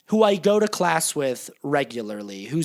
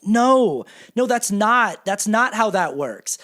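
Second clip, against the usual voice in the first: insistent; 4 semitones higher, slower than usual. Retold or imitated. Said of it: "And I'm like".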